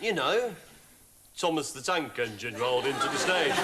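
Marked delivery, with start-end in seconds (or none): 1.4-3.6 lilting Welsh voice imitating a musician; Welsh accent. Shown as a demonstration. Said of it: "Do it with the accent".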